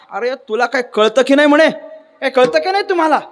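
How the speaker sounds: indignant scolding. Retold or imitated. Fake Einstein scolding the questioner.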